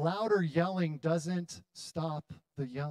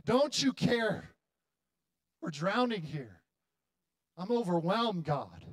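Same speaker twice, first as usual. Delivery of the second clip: acted yell; 3 semitones higher than usual. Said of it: "the disciples were yelling".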